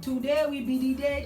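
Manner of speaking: put-on light Nigerian accent, leaning on today. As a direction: say it the way a Nigerian would. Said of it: "Andre did it in a Nigerian accent".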